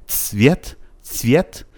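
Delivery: "цвет" as one syllable opening on ts; t-s cluster. Shown as a demonstration. Teacher modelling the correct word for learners, joined ts. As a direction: say "цвет" with t and s fused, tsvyet.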